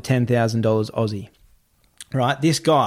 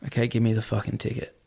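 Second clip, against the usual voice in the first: retold resignation; 7 dB quieter than usual. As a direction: imitate a man giving in quietly. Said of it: "I just see him swallow it".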